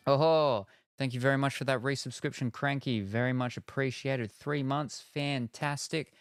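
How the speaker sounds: loud, high, happy gratitude; excited thanks. Real, not acted. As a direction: cheer on the resubscriber. Thanking a resubscriber.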